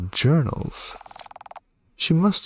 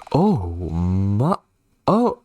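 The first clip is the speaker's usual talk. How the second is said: startled oh; much slower than usual. Real, not acted. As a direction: jump up in pitch, caught off guard. Sees own body on table.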